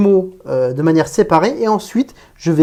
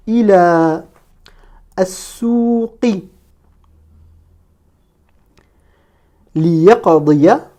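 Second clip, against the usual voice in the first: long vowels held, pauses between words; slow, careful model reading; detached word-by-word; 2 semitones higher, much slower than usual. Shown as a demonstration. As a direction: read each Arabic word separately. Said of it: "chaque mot de manière détachée".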